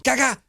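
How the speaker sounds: high, loud vocal crash imitating a drum hit; mock clumsy backbeat. Teacher mimics a clumsy drummer hitting the backbeat, loud squawk. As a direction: blurt the backbeat like a sloppy drummer. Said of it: "they hit the backbeat and it went".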